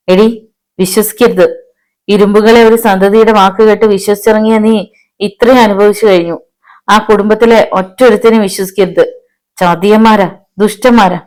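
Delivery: urgent, accusing old man's warning, moderately acted; agitated warning. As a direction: denounce them with rising indignation. Acted furious warning in story. (രോഷത്തോടെയുള്ള താക്കീത്)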